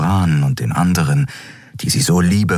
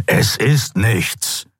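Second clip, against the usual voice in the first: hissing dismissal; 5 semitones higher, much slower than usual. A narrator's reading. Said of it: "fauchte der Skria".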